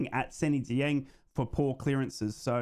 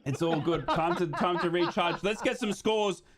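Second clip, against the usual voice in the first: laughing; 4 semitones higher than usual. Real, not acted. Laughs at the snack.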